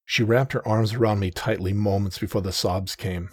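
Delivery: plain reading voice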